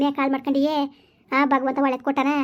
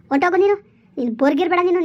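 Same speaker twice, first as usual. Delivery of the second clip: louder shout to get out; angry dismissal; 4 semitones higher, 3 dB louder than usual. Acted. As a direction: throw him out of the house. Mother throws son out. (ಮಗನನ್ನು ಮನೆಯಿಂದ ಹೊರಹೋಗೆಂದು ಜೋರಾಗಿ ಕೂಗುವುದು)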